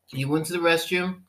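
ordinary talk

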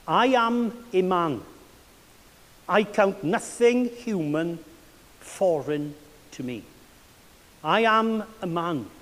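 slow, measured recitation with pauses; quote recitation. Acted. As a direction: recite it deliberately, phrase by phrase. Recites a favourite quote twice.

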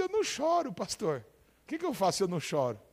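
playing a believer who can't cry; lightly voiced worried believer; mock complaining churchgoer. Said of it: "fala assim".

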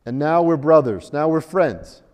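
put-on low-pitched, hammy Russian accent; mock Russian invader with a clumsy accent; terrible Russian accent. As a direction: do a bad Russian accent, landing hard on the turn to friendship. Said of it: "That's a terrible accent".

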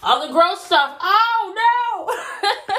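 startled high cry of oh no; surprised. Real, not acted. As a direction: yelp in sudden dismay. Toothpaste mishap mid brushing.

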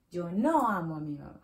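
a playful angry snap; hammed-up grumpy line; mock angry. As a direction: pretend to be cross about it. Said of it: "I'm angry today".

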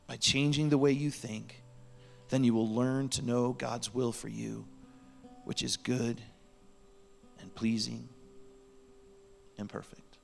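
measured reading with long pauses between phrases; scripture reading. Real, not acted. Preacher reading Romans twelve to congregation, measured and deliberate.

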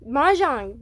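Mahjong as "mah-zhong"; spelled-out pronunciation. Shown as a demonstration. Host settling the name after spelling it, Mahjong as "mah-zhong". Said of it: "M A H J O N G".

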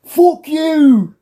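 hammed-up shout; mock yell. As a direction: fling it at him like a mouthy ned. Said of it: "one of them was like".

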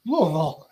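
Louisville squeezed to LOO-vul; swallowed local Louisville. Shown as a demonstration. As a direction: say Louisville from way back in the mouth. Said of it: "I want everybody to say Louisville".

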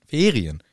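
"Ferien" repeated with stress on FE; stress first syllable. Shown as a demonstration. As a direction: lean on FE in "Ferien". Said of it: "Betonung auf der ersten Silbe". („Ferien“ vorne auf FE betont)

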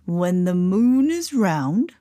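slow, mystical lizard; drawn-out storybook lizard. A narrator's reading. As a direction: intone it slowly, drawing out each word. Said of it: "said the lizard".

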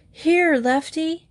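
high, slow gasped answer; gasped reply. A narrator's reading. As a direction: gasp it out, high and strained. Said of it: "Dale gasped".

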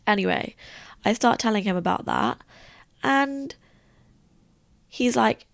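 normal talking voice

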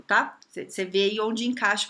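ordinary talk

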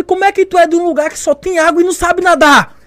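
high-pitched, incredulous mock yell; acted-out instructor dressing someone down; imitated instructor's shouting. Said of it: "falando, gritando".

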